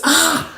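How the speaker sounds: high mock "ah" of pain; high-pitched pretend cry of pain; retold yelp. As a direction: imitate a bitten man's yelp. Retold cry on being bitten.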